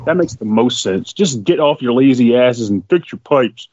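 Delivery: low, slowed-down mock agreement; sarcastic. Podcaster mock-scolding Flint's residents, low sarcastic delivery. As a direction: pretend to back the bad advice, pitched low. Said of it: "that was fucking sarcasm".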